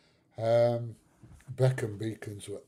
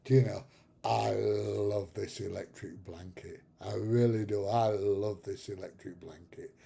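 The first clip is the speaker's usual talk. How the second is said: contented teasing; 3 semitones lower than usual. Retold or imitated. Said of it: "I go".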